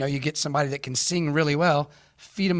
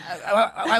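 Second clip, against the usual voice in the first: laughing; 6 semitones higher than usual. Real, not acted. Laughing after freeze.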